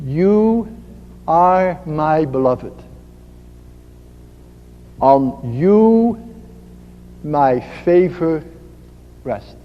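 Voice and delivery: slow, hushed divine tenderness; soft gentle voice. Acted. Gentle voice of God calling the listener beloved, soft and slow. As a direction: say it softly and slowly, letting each phrase settle. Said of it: "is a very soft voice".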